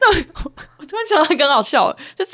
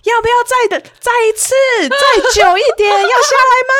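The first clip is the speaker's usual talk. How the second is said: high, louder mock teasing announcer; taunting operator; 11 semitones higher, 5 dB louder than usual. Operator taunting the riders again, high mocking call. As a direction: needle them like a smug ride operator. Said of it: "他还说什么".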